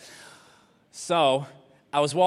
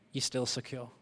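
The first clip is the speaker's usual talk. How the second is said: much softer, settled; soft reassurance; 9 dB quieter than usual. Real, not acted. Preacher quietly reassuring the congregation, softer. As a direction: drop the voice to comfort.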